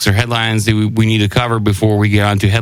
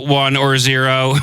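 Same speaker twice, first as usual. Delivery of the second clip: slow, flat robot monotone; 3 semitones higher than usual. Pretend. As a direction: drone it out like a machine. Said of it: "Sound like humans impersonating robots".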